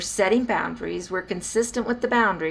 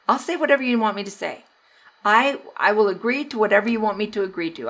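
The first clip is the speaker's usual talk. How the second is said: put-on placating child; 3 semitones higher, faster than usual. Child wanting the yelling to stop, hastily placating. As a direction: rush to give in, child-like. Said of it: "All they're thinking about is".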